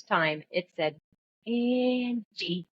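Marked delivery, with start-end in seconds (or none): 1.5-2.7 high, long drawn-out taunting Angie; taunting, scary. Retold or imitated. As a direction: stretch Angie into an eerie, mocking call. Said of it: "taunting and angry, scary".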